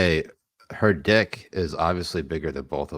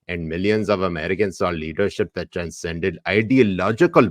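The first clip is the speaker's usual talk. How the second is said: put-on Pakistani accent; 4 dB louder than usual. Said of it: "I have to do this in Pakistani accent".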